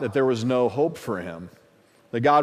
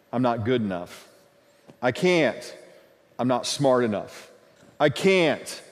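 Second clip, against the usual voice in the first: sick man's excuses; 3 semitones lower than usual. Retold or imitated. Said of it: "Excuses of a sick man or woman".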